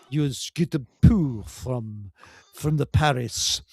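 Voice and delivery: very slow, hammed-up advert announcer; slow and lightly posh mock commercial; mock perfume ad voice. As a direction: sell it like a luxury perfume commercial.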